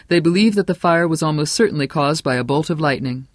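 lightly voiced radio newscaster; radio bulletin. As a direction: announce it like a breaking bulletin. Broadcaster reads news of fire.

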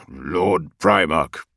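slow, growled address; growling deep voice. Acted. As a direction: growl it out with reverence. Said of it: "his deep voice almost a growl".

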